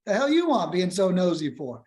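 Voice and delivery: high, mock-angry snap; irritated seller. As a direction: play the annoyed homeowner. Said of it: "Who the fuck is this?".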